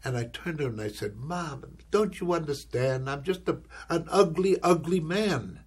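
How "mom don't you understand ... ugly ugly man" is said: tearful plea. Acted. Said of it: "started to cry 'cause I was that much into it".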